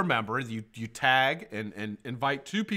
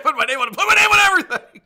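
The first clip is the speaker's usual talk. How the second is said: mock quote; 14 dB louder, faster than usual. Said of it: "They said".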